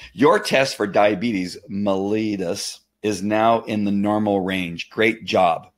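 slow, deliberate read-out; reading aloud. Real, not acted. Reading the doctor's message to viewers, slow deliberate delivery. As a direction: read the message out slowly and clearly. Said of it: "I'm gonna read it to you".

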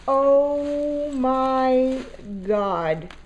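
drawn-out, amazed exclamation; real astonishment; astonished. Real, not acted. Astonished reaction to gift box.

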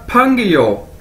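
"फंग यो" joined as one word; careful language-drill "फंग यो"; demonstrated pronunciation. Shown as a demonstration. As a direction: model "फंग यो" for learners. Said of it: "इकट्ठा कर दिया जाए".

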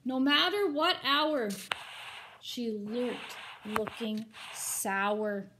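rhythmic, storybook read-aloud; story narration. A narrator's reading. Teacher reading a rhyming picture book to her students, expressive storybook narration. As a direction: read the rhymes to the class with drama.

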